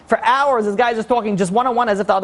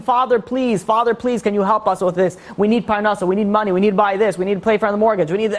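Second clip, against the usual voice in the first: higher-pitched imitation of petitioners; pleading; 4 semitones higher than usual. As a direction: act out people begging their father for help. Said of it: "And we're asking".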